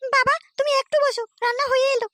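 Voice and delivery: high, put-on young woman's voice; a daughter happily greeting her visiting father; daughter's voice. Daughter welcomes her father at the door in a high voice.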